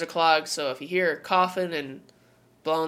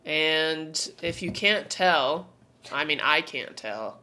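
head cold voice; talking through a blocked nose; stuffy nose; slower than usual. Real, not acted. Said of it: "You sound a little stuffy".

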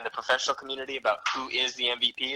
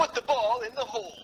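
mock announcer; 11 semitones higher than usual. Joking announcer bit continues.

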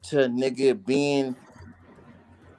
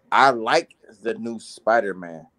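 a little tipsy, words loose; 3 semitones lower than usual. Real, not acted. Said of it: "I might be a little tipsy".

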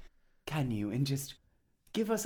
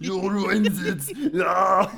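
Gollum shout; 5 semitones higher, 7 dB louder, slower than usual. Acted.

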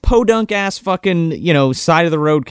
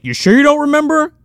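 mock pushy interrogation; 7 semitones higher, 3 dB louder than usual. Hero pressuring her repeatedly.

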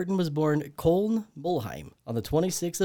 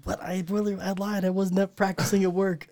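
sheepish confession; 5 semitones higher than usual. Real, not acted. Confesses, breaking into helpless laughter.

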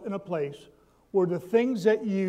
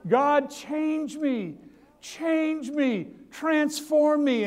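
higher, earnest plea, slow on the last lines; pleading prayer; 3 semitones higher, slower than usual. Acted. Believer praying for change, earnest and pleading. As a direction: beg God to change you.

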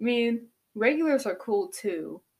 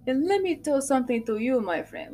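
put-on Godfather accent; 4 semitones higher than usual. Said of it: "this Godfather kinda accent".

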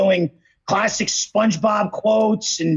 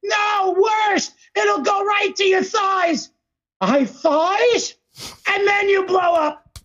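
SpongeBob voice; 8 semitones higher than usual. Retold or imitated. Quoting SpongeBob.

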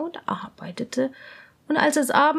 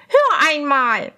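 slow, louder call of a princess; 3 semitones higher, 5 dB louder than usual. Acted. Princess stops and calls to her lady, slow. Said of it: "sagte die Prinzessin".

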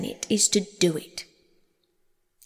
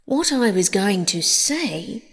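slow, louder, offended; 4 dB louder than usual. Acted. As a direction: say it with wounded pride. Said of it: "in an offended tone".

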